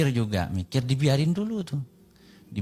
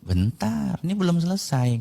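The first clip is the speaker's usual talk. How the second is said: raised-pitch, retold objection; insistent interjection; 6 semitones higher than usual. Koko stopping the debate from ending, insistently. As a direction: cut in high to hold the floor.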